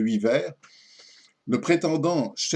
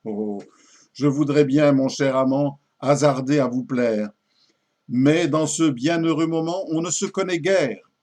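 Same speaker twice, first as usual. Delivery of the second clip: poem recitation. Acted. Lady doubting her lover's restraint, theatrical poem recitation. Recites the lady's final refusal.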